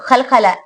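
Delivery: खलखला with a bouncing echo on the stop; qalqala echo. Shown as a demonstration. Tajweed teacher drilling खलखला with a bounce. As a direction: let खलखला bounce after the closure. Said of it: "आवाज मखरज में रोके रखना".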